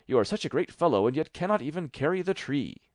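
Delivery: high, loud mocking taunt; the little tailor mocking the giant's strength; boastful tailor.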